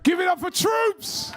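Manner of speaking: loud, slow hype intro shout. Real, not acted. Host hyping up his guest with a loud slow shout. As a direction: announce the guest like a crowd MC.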